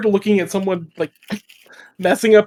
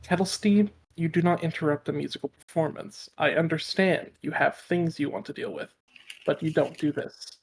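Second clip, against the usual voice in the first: soft, stern words under the breath; under his breath; 8 dB quieter than usual. Acted. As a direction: scold him quietly so nobody hears. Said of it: "under his breath goes".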